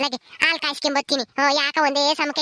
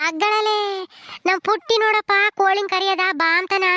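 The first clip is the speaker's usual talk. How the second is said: put-on playful baby talk; 4 semitones higher than usual. Granny showing the little one the hens, playful high baby talk. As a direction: point things out in singsong for a baby.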